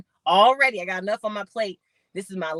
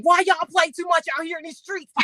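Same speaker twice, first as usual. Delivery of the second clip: high-pitched, hammed-up whine of protest; mock crying complaint; 10 semitones higher than usual. Athlete upset over basketball, hammed-up high tearful protest. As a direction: act out a tearful gripe, pitched way up. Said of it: "I'm gonna cry. I'm gonna be like".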